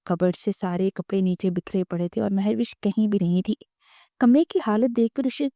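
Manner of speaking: usual speaking voice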